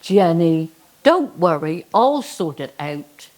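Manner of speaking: hint of a deep godly reassurance; the Lord's voice. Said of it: "the voice comes again".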